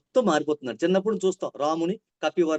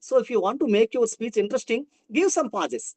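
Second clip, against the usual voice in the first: slow deliberate; 3 semitones higher, much slower than usual. Shown as a demonstration. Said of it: "teacher demos pausing".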